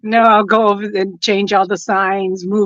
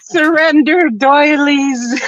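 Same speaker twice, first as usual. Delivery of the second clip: slow, drawn-out mock command; mock stern demand; 6 semitones higher, 3 dB louder, much slower than usual. S0 joking a demand that the lady give back the doilies, slow mock command. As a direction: order her to hand over the goods.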